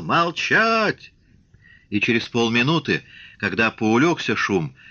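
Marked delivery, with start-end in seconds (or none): 0.0-1.1 high yell, held in volume; bellowed command. A narrator's reading. Shtokman silencing the furious square, high commanding yell. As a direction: order a roaring crowd silent in a high cry. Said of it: "во всю мощь голосовых связок заорал".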